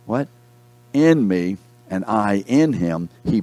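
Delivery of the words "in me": "in" hit firmly, "me" falling; stress on IN. Real, not acted. Preacher answering own question from scripture, stressing "in". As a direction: answer with weight on "in". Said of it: "The emphasis is being in".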